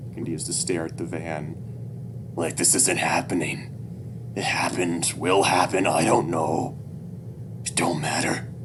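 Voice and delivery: lightly voiced, weary-sounding father, whispery in places; halting, slowed words from a hopeless dad; despairing father. Despairing dad talks to his child.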